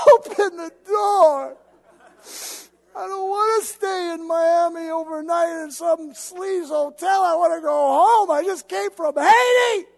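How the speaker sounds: high, loud half-crying rant; frustrated shouting. Retold or imitated. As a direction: shout at the gate agent, near tears. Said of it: "I was so frustrated".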